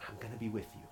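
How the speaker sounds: very soft, hushed promise; imitated divine comfort, said softly; quiet reassurance. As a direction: drop to a gentle, quiet voice to reassure. God reassuring Moses, retold.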